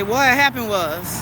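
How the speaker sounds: slow, drawn-out youth-slang phrasing of "what happened was"; young people's slang. Retold or imitated. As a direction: stretch "what happened was" out like a kid making excuses. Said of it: "Like the young people that say".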